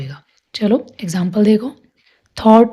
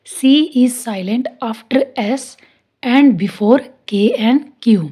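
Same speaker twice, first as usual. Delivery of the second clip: slow, clear rule dictation; teacher dictating slowly; slow dictated rule; much slower than usual. Shown as a demonstration. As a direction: spell the rule out slowly for the class.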